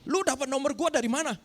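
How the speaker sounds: a stranger angrily demanding where he got the number; angry Jakarta man. Retold or imitated. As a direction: snap at a stranger in Jakarta slang. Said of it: "marah-marah begitu ya".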